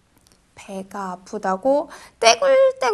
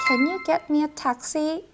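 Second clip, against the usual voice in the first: slow first take; 6 dB quieter, much slower than usual. Shown as a demonstration. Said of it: "택시만 붙이면 되니".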